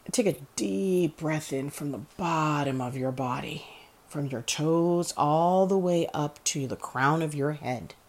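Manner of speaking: deliberate guided-meditation delivery; guided breathing exercise. Acted.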